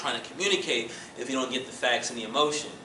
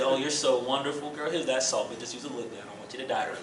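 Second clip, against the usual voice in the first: with love; 3 semitones lower, 5 dB quieter, faster than usual. Shown as a demonstration. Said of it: "pass the salt with love".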